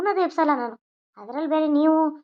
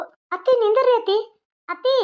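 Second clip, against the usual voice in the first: calling out; 5 semitones higher than usual. Acted. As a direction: stop her before she leaves the house. Calling after leaving mother-in-law.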